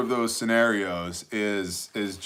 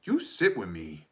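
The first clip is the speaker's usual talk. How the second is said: imitated toddler demand; 4 semitones lower, 5 dB quieter than usual. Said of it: "And she goes".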